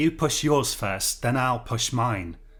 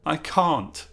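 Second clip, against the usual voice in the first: whimper; 4 semitones higher than usual. A narrator's reading. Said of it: "said Beresford in a whimper".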